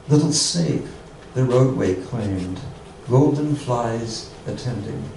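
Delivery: measured poetry reading with long pauses; haiku reading. Acted. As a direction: let each phrase of the haiku settle. Reads haiku, each one twice.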